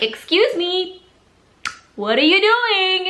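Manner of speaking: indignant confrontation. Retold or imitated. Confronting the neighbor at her mailbox, indignant high voice. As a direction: call her out with sharp disbelief. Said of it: "until I finally was like".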